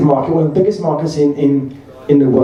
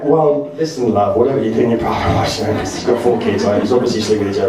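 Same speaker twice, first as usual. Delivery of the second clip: lower, lightly voiced stern dad; a hint of a gruff father; imitating dad; 6 semitones lower than usual. Comedian imitating his dad scolding his wife, lightly lower. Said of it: "my dad's like".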